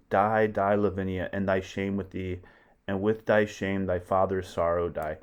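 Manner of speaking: declaimed death line; dramatic Shakespeare reading. Acted. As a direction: read the killing line with weight. Titus kills daughter, read aloud.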